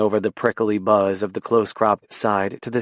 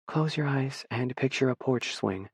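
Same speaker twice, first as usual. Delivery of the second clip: soft, hushed voice; almost whispering; near whisper; 3 semitones higher, 8 dB quieter than usual. A narrator's reading. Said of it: "her voice more of a whisper than its usual volume".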